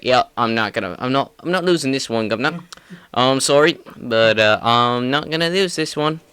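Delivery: a hint of a London voice, saying governor; Leon Edwards English accent. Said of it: "how'd you like my Leon impression".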